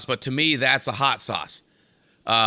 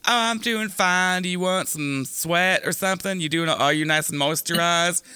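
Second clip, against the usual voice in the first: high pore voice; 5 semitones higher than usual. Pretend. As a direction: play a tiny pore chatting sweetly, pitched up. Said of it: "they'd be like".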